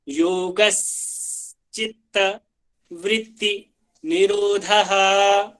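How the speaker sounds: योगश्चित्त वृत्ति निरोधः said slowly with a clear श्च and a final aspirated निरोधः; careful recitation. Shown as a demonstration. Teacher modelling correct pronunciation of a sutra, slow careful recitation. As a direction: recite syllable by syllable, ending निरोधः with a breathy h. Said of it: "अच्छे से pronunciation आना चाहिए".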